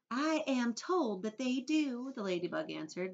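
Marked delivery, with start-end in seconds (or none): 0.1-2.1 modest. A narrator's reading. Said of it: "modestly blushing all over".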